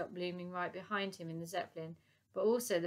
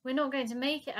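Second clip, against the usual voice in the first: high, loud worried call; 6 semitones higher, 5 dB louder than usual. Acted. Titch calling from the bow to the Admiral, loud warning. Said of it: "called out Titch".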